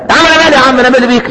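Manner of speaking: dismissive friend. Retold or imitated. Friend disowns friend on Judgment Day.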